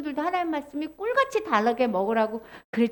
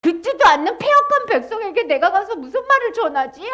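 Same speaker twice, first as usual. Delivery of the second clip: lightly fretful, raised acted question; worried; 4 semitones higher than usual. Ezekiel worrying about the rebellious people, mildly fretful. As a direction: fret aloud with a touch of worry. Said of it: "하고 걱정하면서".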